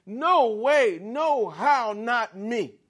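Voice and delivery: loud, high brush-off; no way, not me, with force; emphatic denial. Retold or imitated. Peter loudly insisting to Jesus he'd never deny him. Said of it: "Peter saying".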